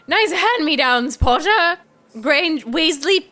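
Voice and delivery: sneering British schoolboy, slow; Draco Malfoy impression. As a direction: drawl it like a snobby rich kid. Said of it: "Draco Malfoy".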